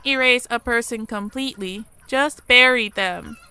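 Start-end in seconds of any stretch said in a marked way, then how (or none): 2.1-3.4 a slow, heavy grumble with a touch of mourning; mild mournful grumble. Acted. Replying to the companion about trauma, a mild mournful grumble. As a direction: let it sink, mournful but understated. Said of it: "I grumble mournfully".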